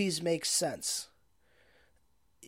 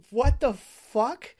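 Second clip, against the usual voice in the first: slow, drawn-out louder disbelief; stunned disbelief; 3 semitones higher, 5 dB louder, much slower than usual. Retold or imitated. Viewer watching the tire explode a bottle, stunned and drawn out. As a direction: let it stretch out in shock. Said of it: "So you're just like".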